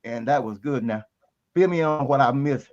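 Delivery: slightly winded after walking; talking a little out of breath. Real, not acted. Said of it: "I'm a little out of breath".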